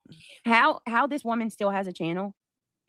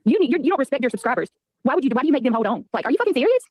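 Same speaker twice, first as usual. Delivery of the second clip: loud, exasperated complaint; 4 semitones higher, 6 dB louder, faster than usual. Real, not acted. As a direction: rant loud and high. Exasperated outburst at viewer.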